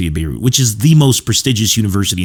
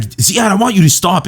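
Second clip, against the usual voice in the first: mock shout; 10 semitones higher than usual. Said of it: "he shouted at Ziad once".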